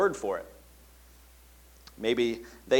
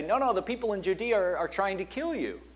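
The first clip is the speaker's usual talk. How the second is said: alarmed disciples; 6 semitones higher than usual. Acted. Disciples protesting to Jesus.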